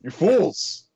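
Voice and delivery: booming mock villain cry; hammed-up evil overlord scolding; booming echoing villain monologue. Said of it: "was just like".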